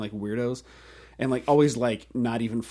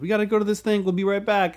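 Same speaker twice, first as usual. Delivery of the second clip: parent voice; 9 semitones higher, 5 dB louder, faster than usual. Retold or imitated. Parents quoted leaving kids.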